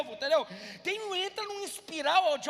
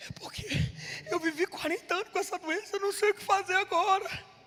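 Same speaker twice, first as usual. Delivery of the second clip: tearful speech spoken through weeping; 3 semitones higher than usual. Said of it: "você tá chorando, mas teu choro não tá alegre".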